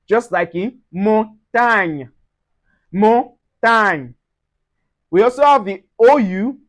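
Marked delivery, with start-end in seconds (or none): 0.9-2.1 "montagne" slowly, GN as ny; nye sound. Shown as a demonstration. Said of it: "going to give us a nye". 2.9-4.1 "montagne" slowly, GN as ny; nye sound. Shown as a demonstration. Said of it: "going to give us a nye".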